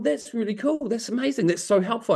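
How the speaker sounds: mock enthusiasm. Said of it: "I said to him".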